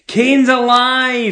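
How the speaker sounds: high, drawn-out melodramatic cry; Paul Bearer impression. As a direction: wail out the big reveal, very slowly. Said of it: "Paul Bearer tells him".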